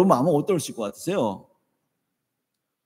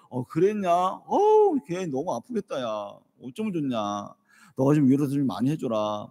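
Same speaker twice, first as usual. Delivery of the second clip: gentle comfort; 4 dB quieter than usual. Retold or imitated. Father comforting son on phone.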